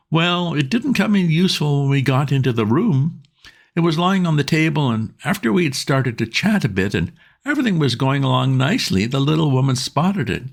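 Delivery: trying hard to be calm and failing; agitated Bingo. A narrator's reading. Bingo bursting in on Wooster, agitated.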